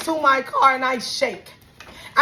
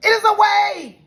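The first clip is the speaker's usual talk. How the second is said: heated insistence; 5 semitones higher, 5 dB louder than usual. Retold or imitated. Customer correcting staff on how they talk, heated insistence. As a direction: punch it out as an emphatic correction.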